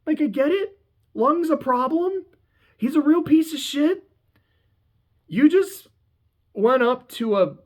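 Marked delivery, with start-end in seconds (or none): 0.1-5.9 laughing. Real, not acted. Laughing disbelief after yell.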